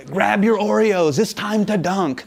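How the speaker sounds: hammed-up play-by-play catchphrase; corny announcer. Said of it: "play-by-play announcers are pretty corny".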